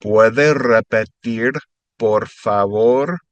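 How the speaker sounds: slow, drawn-out teaching pace. Shown as a demonstration. Spanish tutor slowing the phrase down for students. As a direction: stretch each syllable for learners to copy. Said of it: "I'll say it normal and then a little slower".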